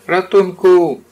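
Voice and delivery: high, loud yell for help; falling bear yelling for help; cry for help. Acted. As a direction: shout it as you fall off the branch. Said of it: "zawołał Puchatek".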